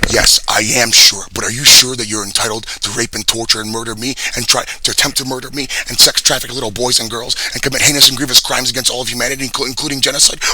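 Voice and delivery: full-volume enraged rant; furious shout. Real, not acted. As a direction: scream the accusation at them. Ranting at an imagined accuser.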